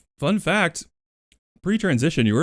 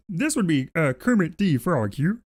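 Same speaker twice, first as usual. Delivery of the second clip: a light attempt at a Muppet frog voice, a bit higher; Kermit the Frog; 5 semitones higher than usual. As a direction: try a quick Kermit impression that comes out nearer to Fozzie. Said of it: "That's more Fozzie than Frog".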